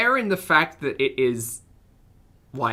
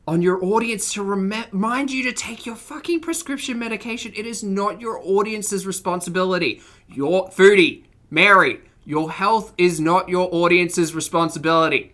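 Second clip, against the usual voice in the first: angry rant; 3 semitones higher than usual. Real, not acted.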